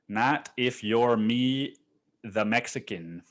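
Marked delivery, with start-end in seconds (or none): 0.1-1.8 slow emphasis. Shown as a demonstration. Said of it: "at least not if you're me".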